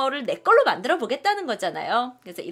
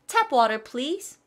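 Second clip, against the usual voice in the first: ordering politely; 3 semitones higher, 3 dB louder, much slower than usual. Shown as a demonstration. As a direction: play a customer asking the waiter. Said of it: "이런 식으로 하시면 돼요". (식당 손님처럼 공손하게 주문)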